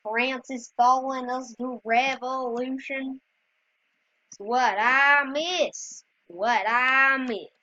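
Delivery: lightly voiced slow Jefferson from the musical; a hint of stage Jefferson, drawn out; Thomas Jefferson impression. Kid playing Roblox tries a Jefferson voice, slow and light. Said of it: "my best Thomas Jefferson accent from Hamilton".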